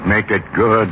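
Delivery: repeating the order with bitter disbelief; bitter echo. Retold or imitated. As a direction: throw the pilot's words back, appalled. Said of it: "he says".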